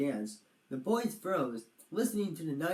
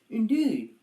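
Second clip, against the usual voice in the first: turtle voice; 8 semitones higher, 7 dB louder than usual. Acted. Roger's voice.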